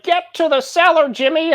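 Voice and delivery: high, loud frantic cry; high-pitched call for Jimmy; old movie shout. Acted. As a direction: yell it like a panicked movie hero. GM voicing panicked old-movie character.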